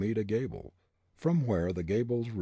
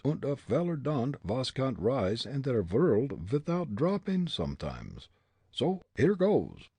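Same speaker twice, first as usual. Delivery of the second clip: put-on German-accented muttering; 6 semitones higher than usual. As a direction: psych yourself up in a German accent. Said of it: "he muttered".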